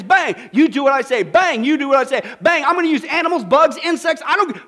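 God ordering creation, forcefully; commanding God. Retold or imitated. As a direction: hammer each bang like an order. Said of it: "God just says".

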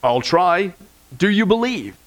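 lightly voiced heavenly figure; voice from above. Voice from above questions the dangling tourist, lightly acted calm. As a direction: answer with a touch of the calm sky voice. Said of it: "the voice from above says".

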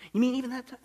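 lightly voiced incredulous question; doubting believer. Believer asking God if the promise covers that, mildly incredulous.

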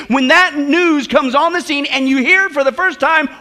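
emphatic sermon build-up; punchy pulpit delivery; impassioned preaching. Real, not acted. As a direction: preach it with rising urgency.

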